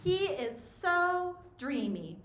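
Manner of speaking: put-on high, drawn-out teenage journal voice; high school self. High school me writing about a crush, mock teenage swoon. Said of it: "high school me wrote".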